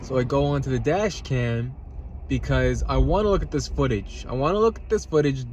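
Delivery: talking with a mouth full; chewing salad while talking. Real, not acted. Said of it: "I'm eating a nice, fresh, healthy salad".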